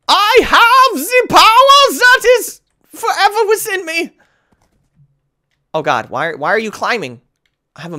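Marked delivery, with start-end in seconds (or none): 0.1-4.2 epic hero voice. Pretend. Epic proclamation.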